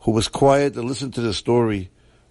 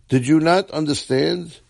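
raised, angry demand; angry yell; 5 semitones higher than usual. Acted. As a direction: yell it at him in fury. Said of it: "he yelled".

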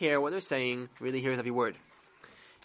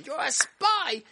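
accusing yell; 9 semitones higher, slower than usual. Retold or imitated. Napoleon retold yelling at the chassid, a high mock yell. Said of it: "screamed at him".

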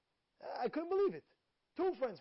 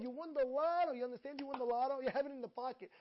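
ordinary talk

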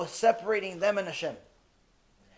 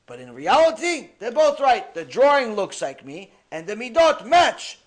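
loud, higher, insistent telling of the truth; emphatic declaration; 4 semitones higher, 9 dB louder than usual. Retold or imitated. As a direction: proclaim it with full conviction. Moshe explains to the king.

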